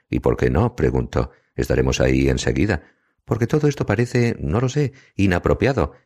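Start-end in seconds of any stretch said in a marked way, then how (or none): 3.3-5.9 narrated shout. A narrator's reading. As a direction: protest in a raised pitch, shout held back.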